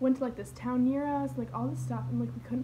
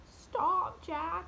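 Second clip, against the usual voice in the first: higher-pitched plea to a dog; mock scolding call; 5 semitones higher than usual. Owner telling her peeing dog off, mock scolding. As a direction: call out to stop the dog, without real force.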